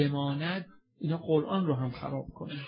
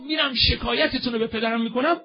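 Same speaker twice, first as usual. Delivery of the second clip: the same line cried out, higher and louder; fervent cry; 9 semitones higher, 7 dB louder than usual. Retold or imitated. Zahra's quote, raised and fervent. (با ناله و فریاد بلند)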